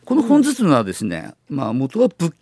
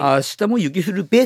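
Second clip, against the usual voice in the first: Tsugaru dialect; 3 semitones higher than usual. Shown as a demonstration. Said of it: "例えば".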